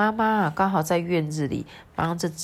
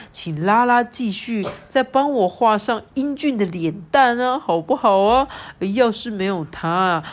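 higher, louder hammy praise; boastful dad; 5 semitones higher, 4 dB louder than usual. Acted. Dad cheering up Lala, hammed-up boasting. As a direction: puff up and flatter. Reading dad's lines.

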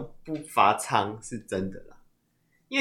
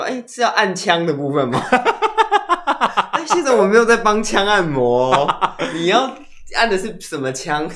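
laughing; 4 semitones higher than usual. Real, not acted. Joking about the gun.

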